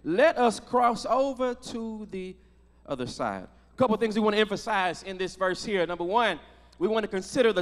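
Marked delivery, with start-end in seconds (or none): 0.1-3.4 scripture reading. Real, not acted. Reads Christ's words from scripture.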